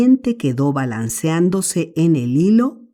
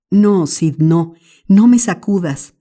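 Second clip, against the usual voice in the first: whimpering; 4 semitones higher, 4 dB louder than usual. Acted. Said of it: "Tom gimoteó".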